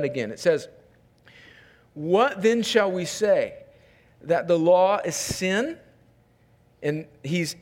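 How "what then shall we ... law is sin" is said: slow, deliberate reading with long pauses; scripture reading. Real, not acted. Pastor reads Paul's question to congregation, measured scripture reading. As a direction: read the verse out as a weighed question.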